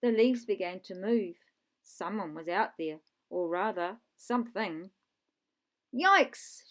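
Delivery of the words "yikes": high, loud startled yelp; shouted. Acted. Lucy startled by something outside the rocket, shouting. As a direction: yell it out in fright. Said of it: "shouted Lucy".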